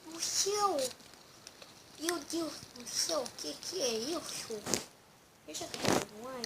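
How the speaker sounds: surprised. Real, not acted. Startled by something in game.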